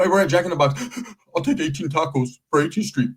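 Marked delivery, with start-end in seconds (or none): 1.3-3.1 laughing order. Retold or imitated. Tia ordering food.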